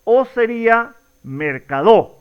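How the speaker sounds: mercadó with the final DO punched; mercadó, wrong stress on the last syllable. Shown as a demonstration. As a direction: move the stress to the end, mercadó. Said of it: "jugar de alguna manera a cambiar la fuerza de voz".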